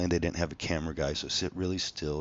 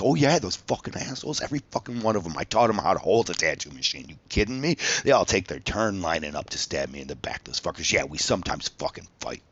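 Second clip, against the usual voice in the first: retold rant; 3 dB louder than usual. To casting producers, an over-the-top angry rant. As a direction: rage at the students who left, half-acted. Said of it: "I was like".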